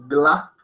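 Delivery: "gla" as one syllable, g straight into l; merged Hindi pronunciation. Shown as a demonstration. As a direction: squeeze out the short A in "gla". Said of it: "uno más tiende a decir".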